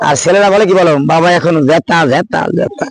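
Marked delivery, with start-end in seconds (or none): 1.1-2.9 গেতা with an e sound, not গীতা; the son mimics the father's garbled গেতা, half laughing; mispronounced Gita. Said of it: "গীতা উচ্চারণ হয় না".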